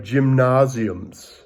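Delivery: slow GYMNASIUMS in an attempted German accent. Shown as a demonstration. Teacher trying a German word for the class, attempted German accent. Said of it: "trying to say it with a German accent".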